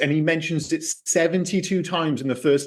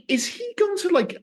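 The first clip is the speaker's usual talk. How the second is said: "Is he going to" jumps way up in pitch; a sudden high squeak of disbelief; incredulous wonder; 14 semitones higher than usual. Retold or imitated. Host recalls his disbelief at the bedroom scene, incredulous high squeak. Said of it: "I'm like".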